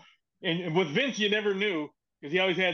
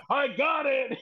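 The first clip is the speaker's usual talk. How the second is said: excited boss shout; 8 semitones higher, slower than usual. Retold or imitated. Boss shouting to the writer that he found it, excited. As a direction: shout it like you just found the answer. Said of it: "and he's like".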